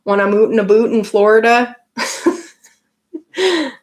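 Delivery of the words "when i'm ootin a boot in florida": mock Canadian accent. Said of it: "Can you guys understand my Canadian accent".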